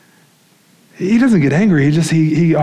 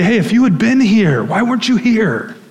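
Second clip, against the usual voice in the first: higher, louder plaintive Martha, questioning Jesus; Martha's complaint; 8 semitones higher, 3 dB louder than usual. Retold or imitated. Preacher voicing Martha's reproach to Jesus, in a raised plaintive tone. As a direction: press him like a hurt sister asking why. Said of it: "they say".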